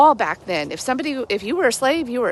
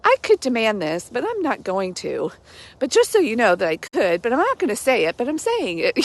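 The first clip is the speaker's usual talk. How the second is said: passive-aggressive. Retold or imitated. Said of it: "that tone in there that Paul was like".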